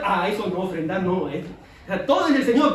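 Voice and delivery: loud, indignant refusal; mock believer balking at the offering; stingy believer refusing. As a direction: push back like someone guarding money. Believer refusing to give money.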